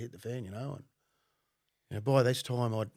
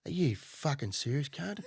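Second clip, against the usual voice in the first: mildly heated, higher-pitched challenge; retold angry disbelief; 4 semitones higher than usual. Phone worker to an informant, retold angry disbelief. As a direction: challenge him as if appalled, lightly acted. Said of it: "I'm just ripping into him".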